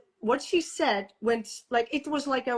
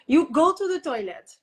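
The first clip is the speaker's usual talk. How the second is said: louder, higher mock command; bossy order; 5 semitones higher, 5 dB louder than usual. Midwife telling the mother where to go, mock bossy. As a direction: lightly imitate a pushy midwife giving orders.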